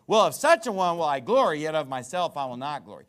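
mock-grand, loud sarcastic opening. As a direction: quote it with sarcasm, punching the first half. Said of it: "he would have to be very sarcastic".

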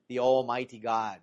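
rough attempt at a Scottish accent. Preacher imitating a favorite radio preacher, slight Scottish accent. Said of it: "He talks in a Scottish accent".

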